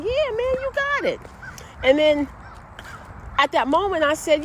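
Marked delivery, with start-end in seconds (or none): 0.0-1.2 much higher, eager cheer; hyped encouragement. Retold or imitated. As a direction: fire him up. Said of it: "he was like".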